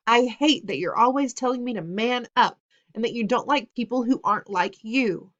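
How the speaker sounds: loud and relentless; angry rant. Acted. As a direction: pour every grievance out hard. Son's angry list of grievances.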